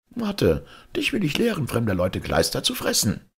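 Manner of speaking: put-on very high, angry old woman yelling; shrill angry old wife. A narrator's reading. Angry old wife yelling after the sparrow, high and furious. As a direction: scream it after the bird, furious.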